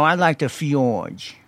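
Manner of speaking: slow, drawled rapper impression; a rapper. Podcast host pitching a team name as a rapper, slow drawl. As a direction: draw the words out lazily like the rapper. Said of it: "that's my rapper impression".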